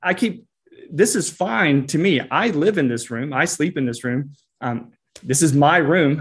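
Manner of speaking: put-on a kid throwing up their hands; exasperated kid. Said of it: "the kid is like".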